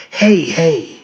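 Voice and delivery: a hint of a chummy bellow; bellowing big pal voice. A narrator's reading. Nervous dad to his son, lightly bellowed big pal voice. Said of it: "he spoke in his bellowing big pal voice".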